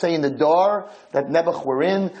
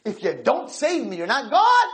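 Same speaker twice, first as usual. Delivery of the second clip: lighter retold dare to God; mild challenge; 9 semitones higher than usual. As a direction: recap the ultimatum, less forced. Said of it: "I challenge you".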